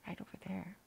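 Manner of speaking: hushed storyteller aside; conspiratorial whisper; secret whisper. A narrator's reading. Narrator points out pie.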